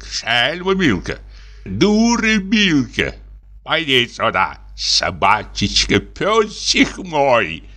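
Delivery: lightly voiced army officer bragging about his dog; a hint of a doting old soldier; boastful lieutenant. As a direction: sell the dog with proud gusto. Dubov praising his dog.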